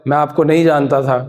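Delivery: dramatic punchy hero lines. Shown as a demonstration. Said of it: "ऐसे बोल देते ना फिल्मी डायलॉग".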